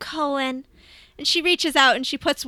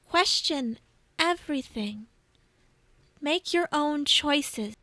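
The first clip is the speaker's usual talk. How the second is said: lightly voiced tender goddess; 3 semitones higher than usual. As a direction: hold his face and bless him gently. Bast counsels Cohen.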